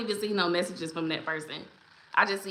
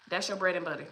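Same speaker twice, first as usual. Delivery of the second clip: quiet emphatic repeat; 2 semitones lower, 6 dB quieter, faster than usual. Real, not acted. Host repeating the key point to viewers, quietly. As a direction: drop the volume to let it sink in.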